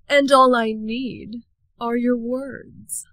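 slow, sly villain offer; a slow sly sea witch; scheming witch. Acted. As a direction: lure her in slowly. Sea witch makes her offer.

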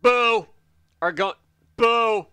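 loud, high boo; mock jeer; playful booing. Real, not acted. Booing the Wood Elf.

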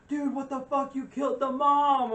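high, slow mock-angry complaint; mock outrage. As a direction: play him hurt and appalled, pitched high. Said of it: "Alistair was pissed".

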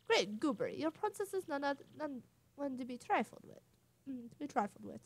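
blustery attempt at a British accent; lost British accent. Bobbery praising the princess, in a faltering British accent. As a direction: reach for a British accent, stumbling. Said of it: "Where is my British accent?".

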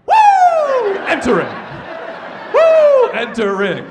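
very high, loud whoops and yells; kid screaming. Retold or imitated. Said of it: "I just kept going".

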